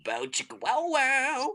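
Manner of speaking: high, slow, laughing mock Emperor sing-song; mock Palpatine. Parodying Return of the Jedi, slow high sing-song Emperor. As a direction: camp it up as Palpatine. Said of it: "he said".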